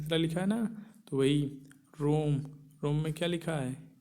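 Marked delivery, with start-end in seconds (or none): 2.0-2.4 रोम with the O held long; रोम as one long, level syllable; prolonged vowel. Shown as a demonstration. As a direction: draw out the O in रोम before closing on the m. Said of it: "गुना अधिक समय लगता है".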